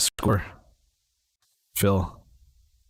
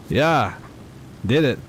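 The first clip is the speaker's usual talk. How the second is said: excited cheer; 5 semitones higher than usual. Real, not acted. Nailing the landing.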